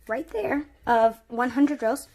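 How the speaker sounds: real slight crack in the voice. Real, not acted. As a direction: let the voice break briefly mid-phrase. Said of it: "my voice cracked a little bit".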